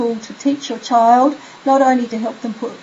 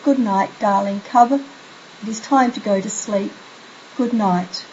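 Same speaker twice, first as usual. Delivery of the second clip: soft bedtime good night. Shown as a demonstration. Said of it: "have your child say".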